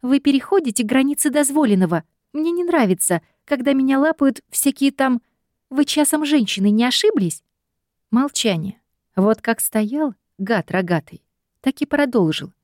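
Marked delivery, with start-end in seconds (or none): 0.0-7.4 put-on high, offended young woman; high offended scolding; indignant heroine scolding. A narrator's reading. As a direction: put him in his place.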